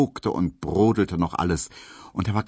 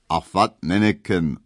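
Berlin dialect; 4 dB louder than usual. A narrator's reading. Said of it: "antwortete der freundliche Mann".

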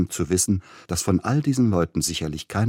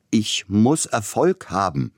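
higher, louder, slow cry; desperate cry; 5 semitones higher, 4 dB louder, slower than usual. A narrator's reading. Young pianist to the composer, slow desperate cry. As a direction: force the words out like a vow. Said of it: "schrie Sapielnikow".

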